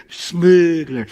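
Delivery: "smuggler" said out loud for the crowd to echo; call and response. Shown as a demonstration. Storyteller leading the audience in "smuggler", loud and clear. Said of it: "everyone say it with me".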